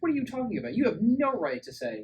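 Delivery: high, loud mock rant at the dad; mock outrage. Viewer yelling at the movie dad, high loud mock outrage. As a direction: blast him as if he's a dumb idiot.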